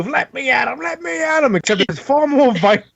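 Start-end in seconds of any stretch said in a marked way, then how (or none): 0.0-1.6 Scrappy-Doo. Acted. Player likening a character to Scrappy-Doo, high cartoon impression. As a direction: squeal it like an eager little cartoon dog. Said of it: "almost like Scrappy-Doo".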